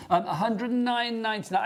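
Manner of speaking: price read in a hammed-up Welsh lilt; mock Welsh accent. Host doing a Welsh accent for the price, lightly Welsh. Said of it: "I can do the accent".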